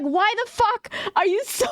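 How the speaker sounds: high-pitched exclamation cracking into laughter; exasperated through laughter. Retold or imitated. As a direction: retell an exasperated outburst while starting to laugh. Exasperated retort to loud girl, laughing.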